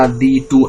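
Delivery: "the two" as one separate foot, weight on "two"; metrical foot. Shown as a demonstration. Teacher counting five feet for students, separated iambic chunk. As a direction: mark off "the two" as a counted unit. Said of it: "সেই পাঁচটা দলে ভাগ হয়ে যাচ্ছে".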